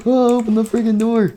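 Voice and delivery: high, desperate mock scream. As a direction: scream at the stuck door in a high voice. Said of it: "they were screaming like".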